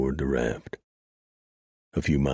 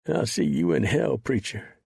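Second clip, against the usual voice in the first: higher, mildly raised curse; yelled; 7 semitones higher than usual. Acted. Son curses Preacher as he dies, mild yell. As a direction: spit the curse at him. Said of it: "Son yelled".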